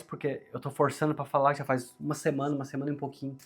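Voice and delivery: strained voice with a sore throat; forcing the voice to be heard. Real, not acted. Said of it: "peço desculpa pela minha voz".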